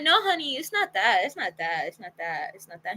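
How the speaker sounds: repeated reassurance that sinks to a mumble; hasty reassurance. Retold or imitated. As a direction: act out soothing someone, trailing away. Retold reassurance of embarrassed date.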